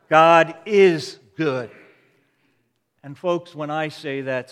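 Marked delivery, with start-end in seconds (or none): 0.1-1.7 loud, drawn-out "is" in God is good; stress on IS. Real, not acted. Preacher proclaiming God's goodness to the congregation, loud stress on "is". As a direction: proclaim it slowly, leaning hard on "is". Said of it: "put the emphasis on the word "is".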